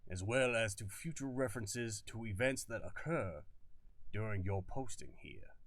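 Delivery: colonel warning the reporter in a hammed-up Southern accent; bad Southern accent. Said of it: "such a bad accent I'm using".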